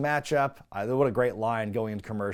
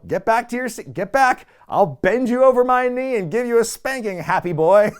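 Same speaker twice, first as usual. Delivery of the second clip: put-on much higher, louder cranky old-man voice; old man scolding; 9 semitones higher, 7 dB louder than usual. Old host scolds Jericho to his seat, loud cranky old man. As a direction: scold like a grumpy grandpa. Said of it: "firing off all these old man sayings".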